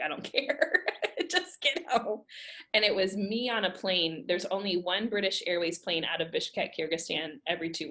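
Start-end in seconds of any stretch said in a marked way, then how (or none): 0.0-2.2 mom's voice, higher, insistent; a hint of a firm mother; imitating mom. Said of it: "She's like".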